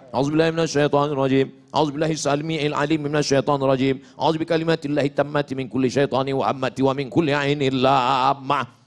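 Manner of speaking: rattled off fast and low; quick recitation. Shown as a demonstration. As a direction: rush through the prayers from memory. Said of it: "Nanya, nanya".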